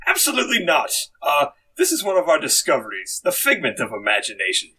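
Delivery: refuse, then resume the tour host's patter; Nigel Channing. Acted. Chairman refusing the creature and presenting it, lightly stern host. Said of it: "Jim, as Nigel Channing, would you like to begin".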